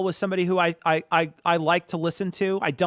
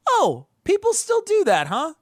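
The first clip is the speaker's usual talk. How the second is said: incredulous; 5 semitones higher, 3 dB louder than usual. Retold or imitated. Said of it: "I remember thinking to myself".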